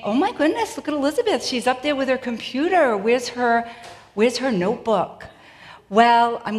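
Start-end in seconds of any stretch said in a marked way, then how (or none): 0.0-5.2 şaşkın tanıdık taklidi. Retold or imitated. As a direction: imitate an acquaintance exclaiming in surprise. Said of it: "those of you who know me are saying".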